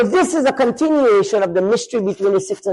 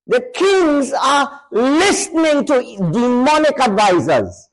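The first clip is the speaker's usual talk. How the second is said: preaching shout; 5 semitones higher, slower than usual. Real, not acted. Preacher warns kings follow demons.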